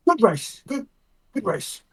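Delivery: mildly conciliatory, with hesitant repeats; lightly acted placating tone; placatory, conciliatory. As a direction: offer a tentative olive branch. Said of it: "in his best, like, placatory, conciliatory tone".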